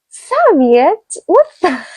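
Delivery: high-pitched incredulous question; imitating someone utterly puzzled; mimicked bafflement. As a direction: pitch it up, as if the word is alien. Mimics people baffled by the word.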